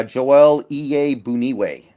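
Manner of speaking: JOEL IYE BUNIWE said slowly, syllable by syllable; correct name pronunciation. Shown as a demonstration. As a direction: sound out Iye Buniwe carefully. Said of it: "that is the correct pronunciation".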